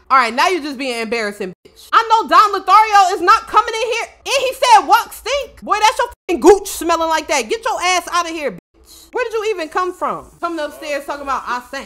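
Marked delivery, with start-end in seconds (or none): 1.9-9.1 high, loud indignant comeback; mock outrage. Player defending Wok from Don Lothario, loud indignant tirade. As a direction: clap back loudly, playfully offended. Acted quarrel with game character.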